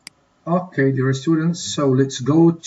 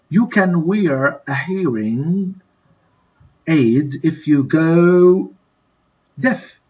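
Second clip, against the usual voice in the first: drawn out, pausing before the answer; slow fill-in-the-blank reading; 3 semitones higher, slower than usual. Shown as a demonstration. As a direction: stretch the words, then pause and supply the missing word. Teacher fills in exercise blank.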